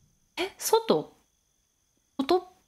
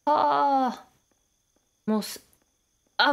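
ordinary talk, nothing marked

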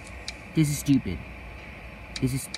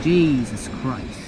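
jump scared; 2 semitones lower, much slower than usual. Real, not acted. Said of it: "that jump scared me a little bit".

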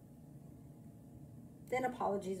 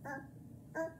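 exasperated hesitation; 6 semitones higher than usual. Retold or imitated. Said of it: "A few minutes later".

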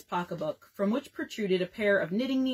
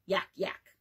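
mock laugh; 2 semitones lower, 4 dB quieter than usual. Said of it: "in spasms of mirth".

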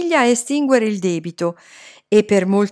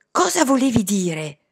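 mildly irritated question; peeved; 3 semitones higher than usual. A narrator's reading. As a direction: ask with a touch of annoyance. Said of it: "gli chiesi stizzita". (lievemente stizzita)

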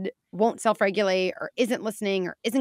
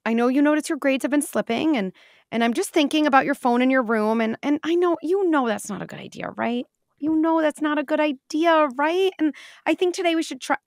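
high, loud pleading parent seeking agreement; wishy-washy parent; 7 semitones higher, 5 dB louder than usual. Shown as a demonstration. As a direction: coax the kid instead of deciding. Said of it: "like a pilot coming on".

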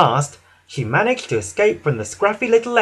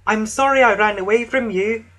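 higher, mildly apologetic voice; Emily; 7 semitones higher than usual. A narrator's reading. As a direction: apologise in a high voice. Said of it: "puffed Emily".

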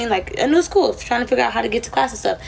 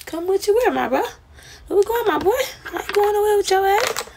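higher, incredulous mock retort; 10 semitones higher than usual. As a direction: scoff at the invite. Mocking the guy's invitation.

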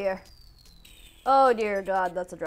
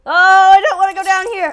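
scared whine; 8 semitones higher, 14 dB louder, faster than usual. Real, not acted. Dreading a drop in game.

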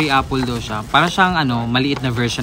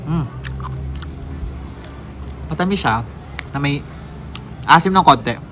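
speaking between bites; talking while chewing. Real, not acted. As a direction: mouth partly full. Seen 0: talks with tight, moving lips right after eating strawberry bites.

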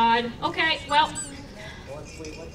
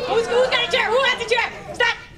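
higher, louder amused shouting; loud laughing call-out; 8 semitones higher, 5 dB louder than usual. Real, not acted. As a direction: call out over the chaos. Fursuiters acting drunk on stage.

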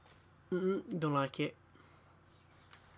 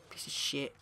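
whispered curse. Real, not acted. Cursing a rival player.

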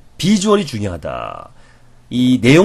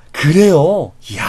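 share the joy; 4 semitones higher, 4 dB louder, much slower than usual. Shown as a demonstration. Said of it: "똑같이 행복한".

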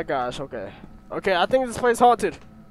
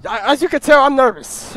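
a touch louder, nervous chatter; 3 semitones higher, 6 dB louder than usual. Real, not acted. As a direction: let mild nerves into the voice. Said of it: "you can tell in my voice".

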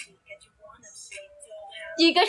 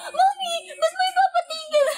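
high shout laughing; shouting over the ride; 12 semitones higher than usual. Retold or imitated. To her mom on the spinning ride, high laughing shout. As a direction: yell it over the noise of the ride. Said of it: "Sabi ko".

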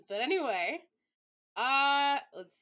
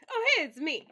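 surprised greeting; 7 semitones higher, 10 dB louder than usual. Real, not acted. Greets own image on screen.

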